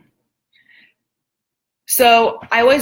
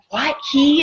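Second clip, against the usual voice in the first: higher, eager yelp of surprise; like a big guy suddenly hopeful; retold excited disbelief; 6 semitones higher than usual. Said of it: "just getting super excited".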